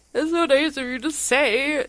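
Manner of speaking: high, lightly voiced gratitude; a touch of grateful surprise; touched thanks. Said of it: "And I was like".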